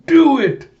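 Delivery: high, loud egging on; excited shout. Retold or imitated. Buick urging Alita to pull the trigger, excited shout. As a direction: yell it with wild eagerness.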